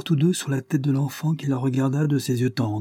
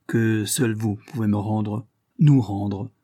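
slow, pressing, nous rendre louder; insisting; 3 dB louder, slower than usual. A narrator's reading. Mother pleading with the old friend for help, insistent and slow. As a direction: lean hard on nous rendre. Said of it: "insista-t-elle".

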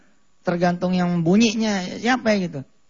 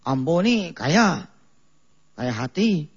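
mock Padang accent; slower than usual. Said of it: "langsung dia berambo-ambo".

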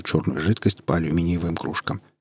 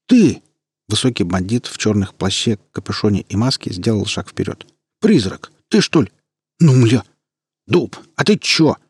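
surprised shout; 4 dB louder than usual. Acted. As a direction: burst out in surprise. Gang boss recognises old friend.

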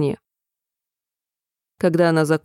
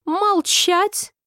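much higher, raging "silence"; furious yell; 11 semitones higher than usual. A narrator's reading. Queen yells at Alice to be silent, furious. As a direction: roar Alice down in red-faced fury. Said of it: "заорала королева, побагровев от гнева".

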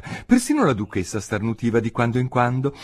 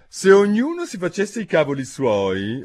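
mild angry growl; 9 semitones higher, 4 dB louder than usual. Acted. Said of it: "ringhiò la duchessa indiperita".

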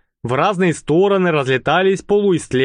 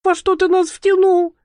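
much higher, panicked cry; frightened girl near tears; trembling. Acted. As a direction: accuse him in rising panic. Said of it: "Девушку начало трясти".

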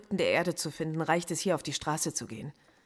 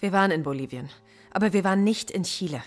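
raised voice, insistent correction; firm denial; 5 dB louder than usual. Acted. Professor denying the interrogator's accusation about Chile, firm denial. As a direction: push back hard on the accusation. Detainee firmly denies the accusation.

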